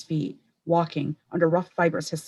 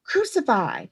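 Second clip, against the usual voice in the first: roaring; 4 semitones higher than usual. A narrator's reading. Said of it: "ponderous roaring".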